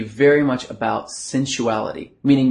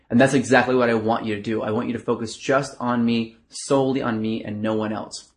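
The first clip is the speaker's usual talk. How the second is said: seduction voice. Shown as a demonstration. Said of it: "using your seduction voice like this".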